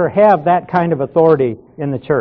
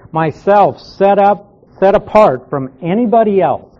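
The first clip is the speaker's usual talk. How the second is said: "Myself" set apart and weighted, then a push on "anybody"; intensive emphasis; 3 semitones higher than usual. Shown as a demonstration. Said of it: "it's called an intensive pronoun".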